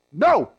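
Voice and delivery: one flat, strong "No" that shuts the door; emphatic no. Shown as a demonstration. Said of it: "like that".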